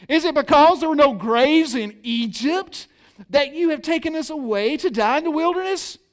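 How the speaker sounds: the Israelites accusing Moses, loud, high and bitter; contemptuous complaint. Shown as a demonstration. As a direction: throw the words at Moses in contempt. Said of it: "grab the essence of how they say this".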